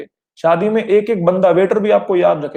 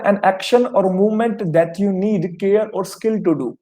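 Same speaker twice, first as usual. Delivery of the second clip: slow definition reading; much slower than usual. Shown as a demonstration. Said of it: "पहला मतलब".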